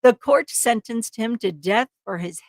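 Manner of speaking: dramatic true-crime narration; story narration. A narrator's reading. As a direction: read it as a suspenseful crime story. Reads the case story aloud.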